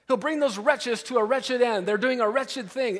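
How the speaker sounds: wretched hit hard and high each time; stress on wretched. Shown as a demonstration. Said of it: "Emphasis on wretched".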